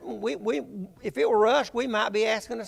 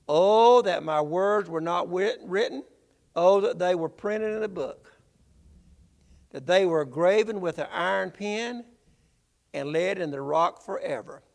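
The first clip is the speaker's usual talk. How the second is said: fervent exclamation; 3 dB louder than usual. Retold or imitated. Job's exclamation read aloud.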